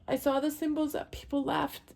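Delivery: high and shaky with real tears, voice thinning; barely keeping it together; real crying in the throat; tearful. Real, not acted. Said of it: "Sorry, I get emotional".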